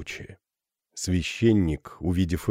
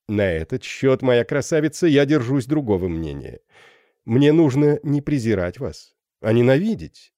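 gallant flirting captain; 5 semitones higher than usual. Acted.

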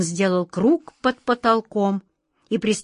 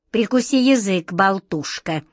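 stern rebuke. Acted. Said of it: "строго одёрнула её тётушка Ох".

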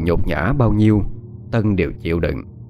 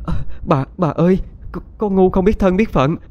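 desperate begging; 10 semitones higher than usual. Acted. Maid clinging to the mistress's legs, begging for mercy in a high tearful voice. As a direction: beg for your family's lives, voice climbing and breaking. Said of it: "ôm lấy chân của bà Liễu rồi van xin".

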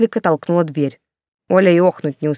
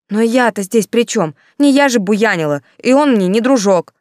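louder, higher indignant protest; 5 semitones higher, 5 dB louder than usual. Acted. Yulka protesting to the commandant, loud and indignant. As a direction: push back hard against the blame.

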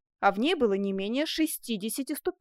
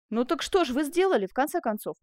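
mildly raised, impatient demand; 3 semitones higher, 3 dB louder than usual. Acted. Jailer questions the would-be prisoner, impatient. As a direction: press for an answer with some impatience. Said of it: "нетерпеливо крикнул тюремщик".

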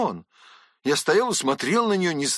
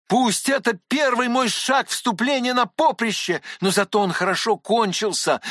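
inspired; 8 semitones higher, 3 dB louder than usual. Acted. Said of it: "продолжал я вдохновенно".

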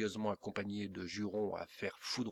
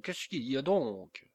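yawning question; 4 semitones higher, 5 dB louder than usual. A narrator's reading. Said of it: "en faisant d'effroyables bâillements".

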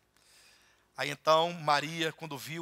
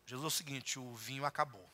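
quiet aside; 5 semitones lower, 13 dB quieter, faster than usual. Retold or imitated. Mary quietly calls Jesus aside.

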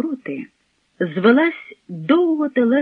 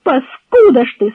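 loud, raised-pitch insult; indignant shriek; outraged cry; 5 semitones higher, 7 dB louder than usual. A narrator's reading. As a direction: hurl it at him in outrage. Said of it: "скрикнула Зося".

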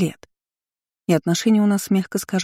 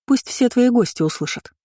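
higher, mocking goad; lightly scornful dare; dismissive; 5 semitones higher than usual. A narrator's reading. Girl daring her sister before guests, dismissive. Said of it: "пренебрежительно фыркнула я".

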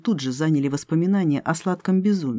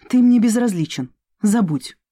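cold dismissal; 5 semitones higher, 4 dB louder than usual. Acted. Cold rejection of lover.

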